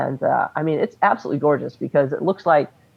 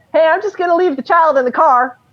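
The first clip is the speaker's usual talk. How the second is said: put-on, very high, loud yell calling across; 13 semitones higher, 5 dB louder than usual. Retelling calling over to K O at the last stop: imitating own yell. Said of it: "And I yell over to K O".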